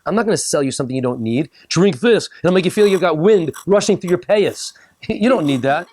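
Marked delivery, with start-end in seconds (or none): 1.7-4.7 hammed-up pushy salesman, higher and louder; over-the-top huckster voice; mock ad pitch. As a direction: sell it like a cheesy TV ad.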